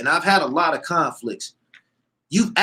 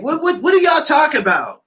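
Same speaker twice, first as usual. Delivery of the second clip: higher, louder disbelieving yell; incredulous shout; 12 semitones higher, 3 dB louder than usual. Real, not acted. Incredulous rant about a singer.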